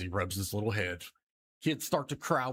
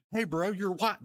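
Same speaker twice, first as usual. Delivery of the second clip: higher call of hey bro; surprised onlookers; 9 semitones higher than usual. Acted. People at the stoplight calling out. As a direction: call it out amused. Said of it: "they said".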